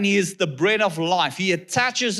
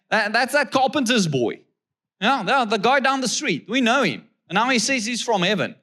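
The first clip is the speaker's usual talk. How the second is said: mocking grumblers; 6 semitones higher than usual. Voicing the grumbling Jews.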